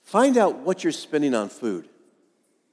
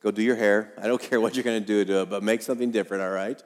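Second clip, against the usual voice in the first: softer, lower, loving wife telling him to fix his hair; lovingly; 6 semitones lower, 3 dB quieter, faster than usual. Retold or imitated. Wife lovingly telling her husband to go fix his hair, soft and fond. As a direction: gently nudge him to redo it. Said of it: "very lovingly".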